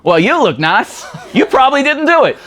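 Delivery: nice cop. Acted. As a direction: soften him up like the good cop. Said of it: "he would interrogate with a".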